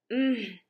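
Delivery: mouth-full muffled hum; stuffed earl's wordless mumble; mumbled "mm". A narrator's reading. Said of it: "mumbled the Earl".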